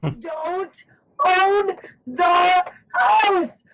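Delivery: strained hoarse crying shout. Real, not acted. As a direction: shout it with a lost voice. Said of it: "I'm sorry my voice is gone".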